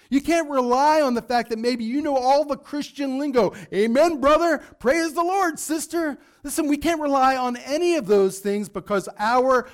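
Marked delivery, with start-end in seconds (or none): 3.7-6.2 churchy voice. Retold or imitated. Mocking church lingo.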